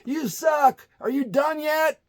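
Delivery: shrieking heckle. Retold or imitated. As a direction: jeer at the stage at the top of your voice. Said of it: "somebody else".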